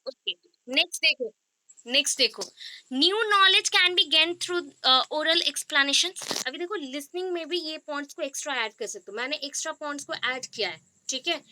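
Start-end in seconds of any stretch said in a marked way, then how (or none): 2.9-6.5 each word drawn out slowly for note-taking; slow dictation. Shown as a demonstration. Teacher dictating a definition to students, very slow.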